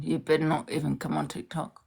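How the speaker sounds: whispered warning, soft and menacing; threatening whisper. Real, not acted. Warning her ex off TikTok in a menacing whisper. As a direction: hiss a quiet threat.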